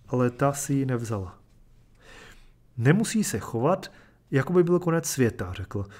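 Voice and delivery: measured, even storytelling voice; steady reader carrying a tragic tale; story narration. A narrator's reading. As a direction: read it like a literary short story aloud. Reads a short story aloud.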